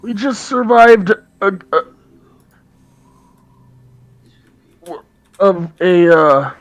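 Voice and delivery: high, loud raspy dwarf woman; Haruna's raspy voice. Acted. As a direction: rasp it out as a gruff dwarf. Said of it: "in a raspy voice".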